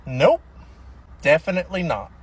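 out of breath, panting. Acted. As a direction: say it winded and out of breath. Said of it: "Why are you so out of breath?".

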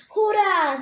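high, loud joyful cheer; a loud hooray. Acted. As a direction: shout it like happy kids. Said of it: "Zawołały fajniaki".

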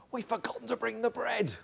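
a sheepish giggle as the disciples confess; sheepish laugh. Retold or imitated. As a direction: own up with an embarrassed chuckle. Disciples admit the missing bread.

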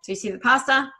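ordinary talk, nothing marked

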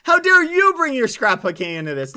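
loud offended retort; indignant outrage. Acted. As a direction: throw it back outraged.

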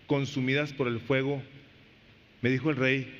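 slow, measured Bible reading; scripture reading. Acted. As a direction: read the verses out deliberately.

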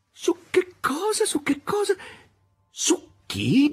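high, laughing repeat of the question; mocking laugh through the words. A narrator's reading. Volant roaring with laughter at the novel's subject, high. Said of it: "scoppiò in una risata".

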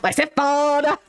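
mock-menacing echo of the mother's line; imitating her intonation. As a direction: parrot her threat back, hammed-up. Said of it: "Entonação de voz".

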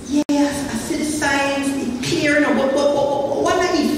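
lightly voiced hesitant doubter stammering "but, but"; mocking doubter. Preacher mimicking doubting church members, lightly mocking. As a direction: poke fun at the waverer. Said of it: "Some people say".

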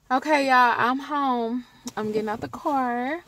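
Chicago accent, "car" rounded toward "core"; real Chicago accent. Real, not acted. Vlogger getting out of the car, real Chicago accent. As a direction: let the Chicago vowel out on "car", rising. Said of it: "I just said the real Chicago".

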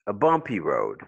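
"bumpy" stressed on BUM; first-syllable stress. Shown as a demonstration. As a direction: punch BUM in "bumpy", then let it fall. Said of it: "stress is on the first syllable".

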